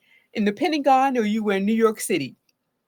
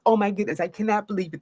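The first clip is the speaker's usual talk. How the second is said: stunned disbelief; 2 semitones lower, faster than usual. Shown as a demonstration. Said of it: "the disbelief".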